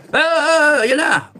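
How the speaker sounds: high, frantic mock stammer; mocking panicky protester. Mocking hotheads who panic, in a high frantic stammer. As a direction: ham up a flustered panicky voice. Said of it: "hindi yung ganyan na".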